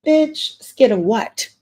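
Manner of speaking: exasperated disbelief; incredulous outburst. Real, not acted. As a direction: scoff at her fear in disbelief. Ranting at a TV character.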